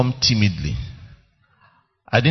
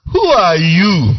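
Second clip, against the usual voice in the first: plain; 4 semitones higher, 5 dB louder than usual. Real, not acted. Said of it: "preacher challenging the hearers".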